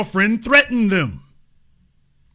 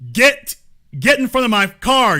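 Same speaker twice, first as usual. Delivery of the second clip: raised, loud retold yell; mock shout; 4 semitones higher, 4 dB louder than usual. Reading the driver's shout, raised loud. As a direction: bark it like the angry driver. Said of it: "Bartlett shouted".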